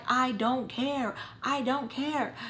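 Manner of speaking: mock bratty defiance; defiant retort. Acts her defiant answer.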